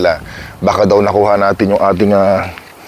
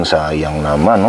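drawn-out lament; 3 semitones lower, much slower than usual. Real, not acted. Lamenting rotting berries.

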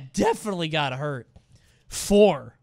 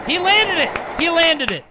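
higher, louder triumphant shout; excited cheer; 8 semitones higher, 4 dB louder than usual. Real, not acted. Watching the skater land it, excited cheer. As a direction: cheer the landing like a fan.

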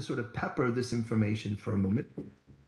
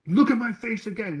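higher mock angry snap; angry man; 7 semitones higher than usual. Preacher imitating the angry man who hit him. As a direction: throw it back like the angry stranger. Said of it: "he's quite angry".

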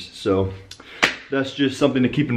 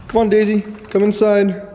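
calling the puppy; 9 semitones higher than usual. Real, not acted. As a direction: coax the little dog inside, sing-song.

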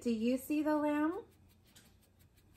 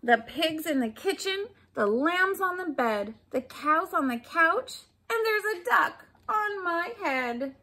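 a bit louder, rising exasperation; frazzled shopper; 5 semitones higher, 4 dB louder than usual. Acted. Woman listing where animals are, frazzled. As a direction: list it like chaos all round.

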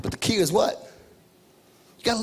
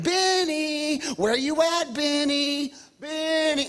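put-on sing-song calling for a hidden child, pitched up; 6 semitones higher, much slower than usual. Dad playing hide and seek, calling his son's name. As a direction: call out playfully as if searching.

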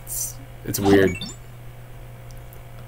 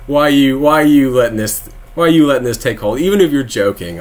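louder, faster pleading outrage; exasperated rant; 3 semitones higher, 5 dB louder than usual. Real, not acted. Ranting at conservatives who say cisgender, louder exasperation. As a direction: throw up your hands and demand why.

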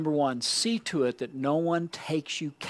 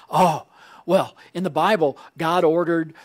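mock objector; 2 semitones higher, 5 dB louder than usual. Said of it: "they will charge us by saying".

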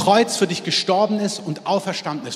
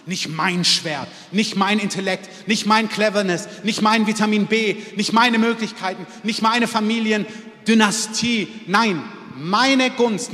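rising preaching; 4 semitones higher, 4 dB louder than usual. Real, not acted. Preacher listing, rising climax.

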